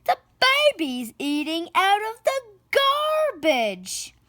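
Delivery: put-on a high, alarmed kid's shout. Barney telling the family about the baby, high shout. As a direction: shout the news to the whole family. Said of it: "Barney Loud shouted".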